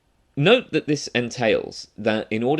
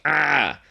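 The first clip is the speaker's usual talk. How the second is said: higher-pitched "ah" of pretend pain; mild mock scream, pitched up; 7 semitones higher, 4 dB louder than usual. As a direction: demonstrate a half-hearted yelp of pain. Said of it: "I scream like".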